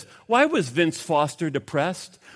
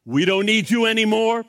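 defiant cry; 4 semitones higher than usual. Retold or imitated. Scientist in the joke crying out at God, defiantly. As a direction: shake a fist at heaven, a touch hammed-up. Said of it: "he raised his fist up at God and he cried out".

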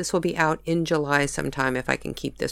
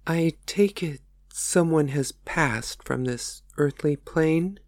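compassionate tone; slower than usual. Acted. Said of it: "in a compassionate tone".

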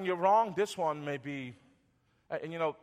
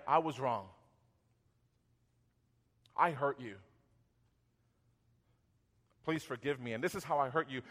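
lower, softly voiced apology; repentant apology; 5 semitones lower, 6 dB quieter than usual. Pastor models confessing a hurt, softly repentant. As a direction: own up gently, in a lower voice.

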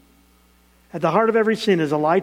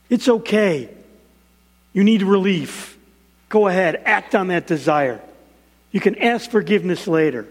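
tempting devilish voice. Retold or imitated. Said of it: "the devil throws kind of a right cross".

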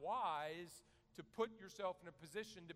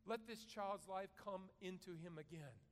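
higher, earnest prayed plea; fervent prayer; 4 semitones higher than usual. Retold or imitated. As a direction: pray it out, pitched up. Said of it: "And then he prays".

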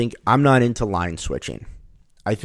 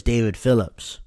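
put-on Jamaican accent; 2 semitones higher than usual. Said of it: "also had a Jamaican accent".

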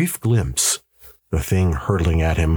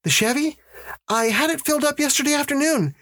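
much higher, dazed wife's voice; faster than usual. A narrator's reading. Wife answering her husband about the Chevy, dazed. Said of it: "Janet was dazed".

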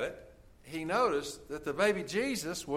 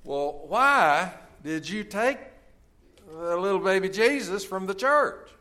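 sterner; 3 semitones higher, 5 dB louder than usual. Retold or imitated. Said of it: "with a little more sternness in his voice".

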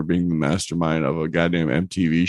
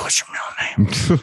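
teacher voice; 6 semitones higher than usual. Retold or imitated. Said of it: "They'd be like".

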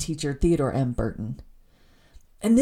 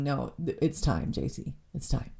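soft, low and much quieter, a kind nudge; gentle divine voice; 4 semitones lower, 7 dB quieter than usual. Retold or imitated. God gently telling J C it's time, softly. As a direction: hush it like a loving correction. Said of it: "him saying".

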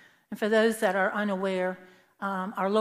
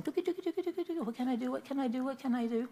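high, fretful sing-song; a worried little voice fretting inside her head; panicked inner voice; 4 semitones higher, 5 dB quieter, faster than usual. Retold or imitated. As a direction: her inner voice frantically wondering what to do. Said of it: "in my little head, it's going".

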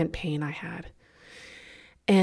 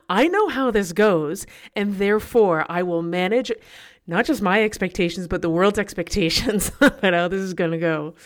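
laughing while telling; 4 dB louder than usual. Real, not acted. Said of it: "I am laughing now".

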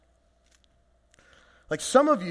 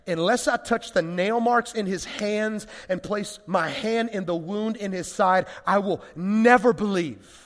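stubborn Thomas; 2 semitones higher than usual. Retold or imitated. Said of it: "he said to the rest of the guys".

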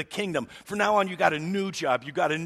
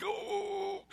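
mock shock; 6 dB quieter than usual. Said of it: "I'm like".

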